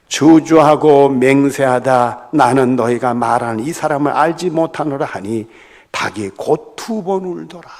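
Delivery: measured Bible recitation, emphatic opening; scripture reading. Acted. Pastor reading Mark's account of the denial, formal. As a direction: read the verse out formally. Reads the parallel verse aloud.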